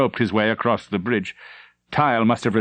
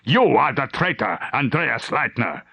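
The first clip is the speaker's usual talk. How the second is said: angry shouting; 3 semitones higher than usual. Acted. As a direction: shout him down. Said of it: "He shouted".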